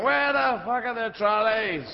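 loud, high, drawn-out comic yell; exasperated shout. Acted. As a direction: wail it across the whole shop. Stressed shopper calling out in supermarket.

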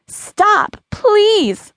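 high, urgent cry of desperation; screamed plea. A narrator's reading. Lily screams through an invisible wall at her younger self, high desperate plea. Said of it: "Lily screamed out".

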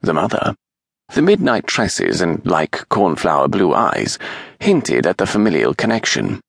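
ordinary delivery

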